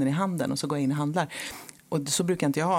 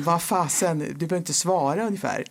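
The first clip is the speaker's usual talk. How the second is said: a bit sour; 2 semitones higher than usual. Retold or imitated. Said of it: "för då blir jag lite sur".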